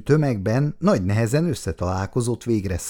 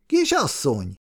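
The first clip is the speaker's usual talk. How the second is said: calling out again; 5 semitones higher than usual. Acted. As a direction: call again as she turns, settling down. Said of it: "Szabó János elkiáltotta magát".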